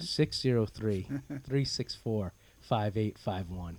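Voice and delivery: slow, deliberate phone number; slow and clear. Shown as a demonstration. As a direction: give the number slowly for listeners. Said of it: "What's the phone number again?".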